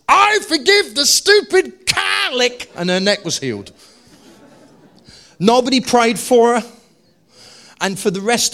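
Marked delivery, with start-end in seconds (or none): 0.1-2.7 high, slow, loud mock-reluctant forgiving; grudging forgiveness. Woman forgiving the cow with her stiff neck, high and grudging. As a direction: force the words out through a strained neck. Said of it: "it was literally like this".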